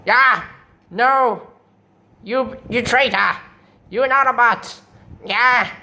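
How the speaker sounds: high cries of betrayal; outraged villain. Acted. Starscream calling Jetfire a traitor, high outraged cries. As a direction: recoil in hammed-up horror.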